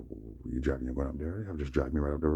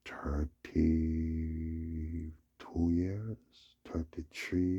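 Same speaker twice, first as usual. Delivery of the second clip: drawn-out whisper; much slower than usual. Real, not acted. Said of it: "drawn out reflection".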